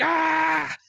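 high, loud imitated shriek; hammed-up terrified cry; mock scream. Detainees thinking the boat sinks, mock shriek. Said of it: "They're like".

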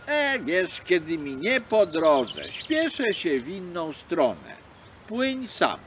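slow, brush-off reply; a seal who can't be bothered; dismissive seal. Acted. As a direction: wave the fox away. Seal refuses fox.

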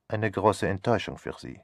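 dry, quiet and understated. Acted. Poirot needling Charles about his aunt, dry understatement. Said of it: "Trocken sagte Poirot".

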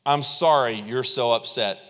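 mock-sympathy with an edge; backhanded apology. Backhanded apology to an upset friend, mock cool. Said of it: "the backhanded apology".

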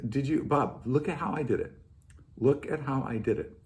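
quietly coaxing, as if from the Lord; hushed retold instruction; imitating the Lord's prompting. Voicing the Lord's gentle prompting.

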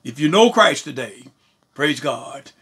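impassioned sermon delivery with swelling emphasis on key words; fervent preaching. Real, not acted. Preacher assuring believers they will never be separated from God, fervent preaching. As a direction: preach it with conviction, stretching the weighty words.

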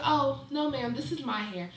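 toned-down, courteous reply; mannerly version of the retort; polite correction. Retold or imitated. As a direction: correct her politely, without the sass. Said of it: "well, I didn't say it like that".

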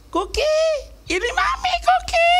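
put-on very high, loud baby talk to the dog; wife cooing to dog. Wife on a video call to the dog, squealing baby talk. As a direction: coo like a mother to her puppy. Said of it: "Tiba-tiba gini".

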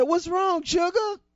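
put-on a sweet old grandma checking on her girl; grandmother's voice. Grandmother answers crying granddaughter.

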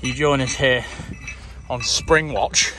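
a slow, hushed wildlife TV host; nature presenter. Pretend. Mate welcoming viewers like a hammed-up nature presenter. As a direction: introduce the scene like a nature documentary.

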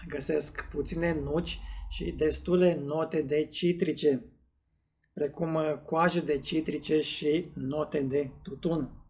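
glass held before mouth; talking while nosing whisky; speaking into a glass. Real, not acted. Seen 0: Tasting glass held at nose and mouth while he speaks throughout.

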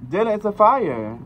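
loud, high alarm; alarmed shout. Real, not acted. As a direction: shout the warning in panic. Fire breaks out in game.

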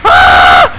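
loud scream of fright; terrified scream. Acted. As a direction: scream as the monster comes. Scream running from Hulk.

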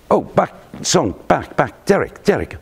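high call after someone leaving. Retold or imitated. Shankly calling the young player back as he leaves, calling out. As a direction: call him back across the room.

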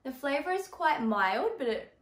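slight lisp, tongue held up; talking round a spot on the palate; lisp from a mouth spot. Real, not acted. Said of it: "Excuse the lisp".

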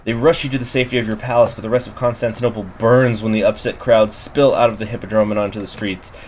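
measured storyteller read; story narration. A narrator's reading. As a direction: read it like a game event. Reading event text aloud.

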